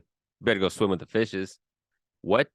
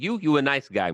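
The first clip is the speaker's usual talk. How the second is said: a light, higher-pitched wiseguy voice; mock mobster; 5 semitones higher than usual. Host playing mobster affectionately pinching a cheek, mock wiseguy. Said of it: "where you pinch their cheek".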